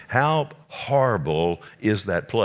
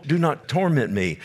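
a higher, pressed repeat of the plea; demon pleading; 5 semitones higher than usual. Retold or imitated. Preacher repeating the demon's plea to Jesus, pitched higher. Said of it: "He said".

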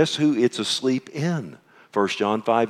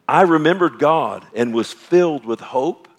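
louder and higher, bright hopeful reading; mock upbeat misreading; 6 semitones higher, 5 dB louder than usual. Shown as a demonstration. Pastor voicing the verse as people expect it, upbeat and loud. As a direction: read it like a cheerful expectation.

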